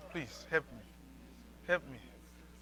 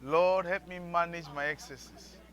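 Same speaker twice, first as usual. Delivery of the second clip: prayer; slower than usual. Shown as a demonstration. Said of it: "I didn't say you should whisper".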